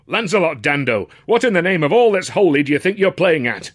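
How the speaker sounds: high, loud fatherly outrage; indignant father raising his voice; outraged cry. A narrator's reading. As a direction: scold a son caught red-handed. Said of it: "he cried, outraged".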